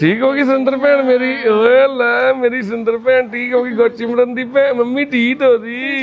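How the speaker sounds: high, cheery coaxing praise; affectionate praise. Real, not acted. Praising a recovered sister in the home, high and cheery.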